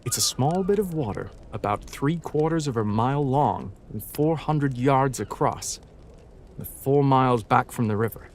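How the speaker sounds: reading aloud in an American accent, R sounded at word ends. Shown as a demonstration. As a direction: read the passage in American. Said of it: "when it comes to American".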